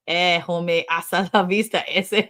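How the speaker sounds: lightly put-on Californian slang accent; a hint of Californian Chicano accent. Reading out how a Californian says it, mock Californian accent. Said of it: "if a Californian says it would come out".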